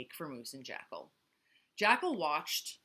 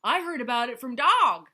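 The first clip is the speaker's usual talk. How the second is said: squeaking; 6 semitones higher, 13 dB louder than usual. Acted. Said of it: "squeaked Nightingale".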